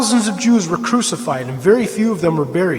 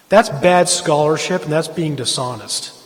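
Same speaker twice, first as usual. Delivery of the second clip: getting emotional; 2 semitones lower than usual. Real, not acted. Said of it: "sorry, I'm just getting emotional here".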